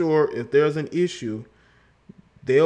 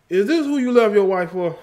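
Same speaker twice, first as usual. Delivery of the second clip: higher, louder mock accusation; ribbing a friend in a raised teasing voice; teasing jab; 7 semitones higher, 4 dB louder than usual. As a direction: needle him about leaving his wife. Mock-scolding Country Wayne.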